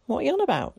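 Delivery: fed up after three hours waiting; exasperated. Acted. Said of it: "feeling quite exasperated".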